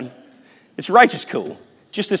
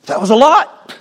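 mouth full; 5 semitones higher, 8 dB louder than usual. Retold or imitated. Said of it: "took a bite of the pork chop biscuit and went".

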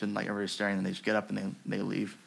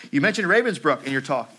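louder, higher voiced guard in story reading; former camp guard; 4 semitones higher, 6 dB louder than usual. A narrator's reading. Guard approaching survivor after her talk, lightly voiced guard. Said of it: "he was saying".

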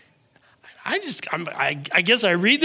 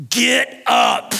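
short shouted order with a changed voice; God's stern command. Acted. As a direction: shout it as God rousing Joshua. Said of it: "I think he said it like this".

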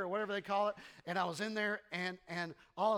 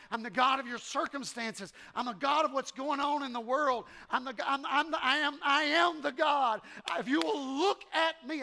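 voicing God; 6 semitones higher, 5 dB louder than usual. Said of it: "what he's trying to tell you is".

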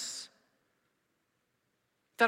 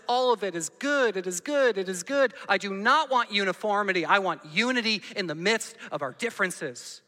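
voicing God; 5 dB louder than usual.

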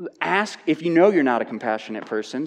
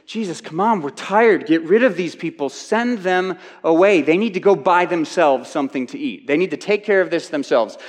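fed up, push the crowd onto someone else; tired, complaining disciples; 3 semitones higher, 4 dB louder than usual. Retold or imitated. Preacher acting disciples complaining to Jesus, exasperated and louder. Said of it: "It was".

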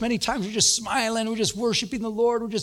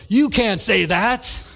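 laughing mock protest; 5 dB louder, much slower than usual. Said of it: "And he goes".

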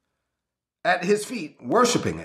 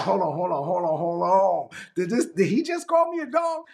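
sassy Brooklyn woman taking offense; Brooklyn attitude. Retold or imitated. Brooklyn woman insulted by Jesus, sassy Brooklyn indignation. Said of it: "a woman from Brooklyn".

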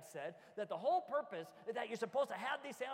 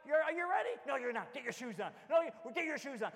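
put-on loud, raised voice calling the kids; parent ordering kids; 4 semitones higher, 6 dB louder than usual. Dad telling his kids to get ready for church, loud and firm. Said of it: "I'm like".

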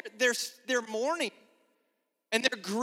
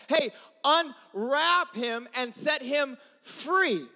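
commanding shout; much slower than usual. Acted. Jesus commanding at the tomb.

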